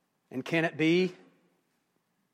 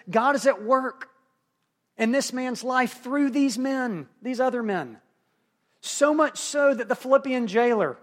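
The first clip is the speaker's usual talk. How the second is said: higher-pitched, measured pulpit proclamation; emphatic preaching; 7 semitones higher, 5 dB louder than usual. Acted. Preacher telling the congregation God is at work, emphatic proclamation. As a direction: preach it with building insistence.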